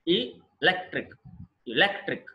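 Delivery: ఎలక్ట్రిక్ broken after E, weight on LEC; penultimate stress. Shown as a demonstration. Teacher breaks up electric for class, LEC stressed. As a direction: split off the first E, then stressed LEC in ఎలక్ట్రిక్. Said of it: "penultimate syllable".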